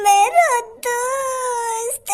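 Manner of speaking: mock sobbing. Friend mourns before hanging.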